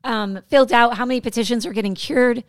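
losing her voice, strained; worn-out, raspy voice; raspy whisper. Real, not acted. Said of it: "Sorry, I'm losing my voice".

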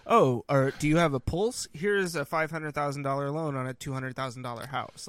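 loud, emphatic mock sales pitch; mock eager lender. Voices lax lender in retold quote.

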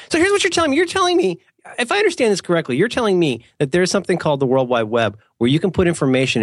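high-pitched feigned amazement at the start, then settling down; mock naive disbelief. Host pretending not to know the web, mock amazed. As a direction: play dumb as if hearing of the web for the first time.

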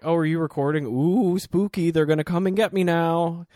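put-on high, loud old lady voice; toothless old woman. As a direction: play a mock-scared toothless granny. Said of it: "this little old toothless woman".

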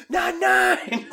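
British "nine nine" mimicked through laughter; mock British accent. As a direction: tease a Brit's way of saying "nine nine". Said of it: "you guys say nine nine".

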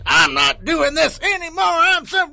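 exasperated. Retold or imitated. Exasperated quote, high and loud.

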